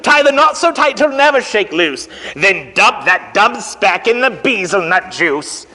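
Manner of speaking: lively picture-book read-aloud; reading to children. A narrator's reading. Teacher reading Horton to the children, lively storytime. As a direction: read it out to the kids, bouncing.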